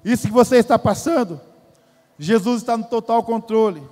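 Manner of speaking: pressing the promise onto the listeners; preaching emphasis. Acted. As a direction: hit the repeat harder, like a pulpit call. Repeated louder for emphasis.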